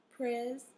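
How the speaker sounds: Pres-in-tation broken into its three syllables; clapping out Pres-in-tation; split into syllables. Shown as a demonstration. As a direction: chop Pres-in-tation into separate beats. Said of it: "that first syllable is a closed syllable".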